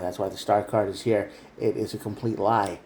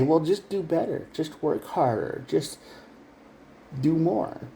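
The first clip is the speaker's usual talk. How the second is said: mock condescending; 5 semitones higher than usual. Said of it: "And then they say".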